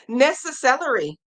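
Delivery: "necessary" said as "nessa-SELL-ery", ending like celery; playful mispronunciation. Retold or imitated. Crafter reading out a viewer's ruined word, playful mispronunciation. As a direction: turn "necessary" into "nessa-cellery". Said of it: "I like that".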